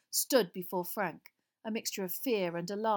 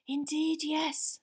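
cold master's voice, lightly raised in pitch; 8 semitones higher, much slower than usual. A narrator's reading. Master confirming to his nervous servant, cold voice. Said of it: "said the voice".

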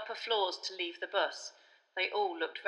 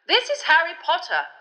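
higher, louder official correction; Fudge voice; 10 semitones higher, 11 dB louder than usual. A narrator's reading. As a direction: set the boy straight, impatient.

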